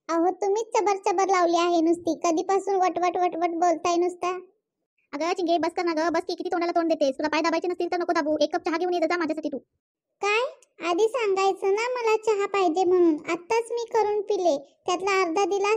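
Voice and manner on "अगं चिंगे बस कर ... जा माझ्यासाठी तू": lower, quick grumbling orders; mother-in-law orders Chinga to bring tea; bossy mother-in-law. Acted. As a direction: boss her into making tea.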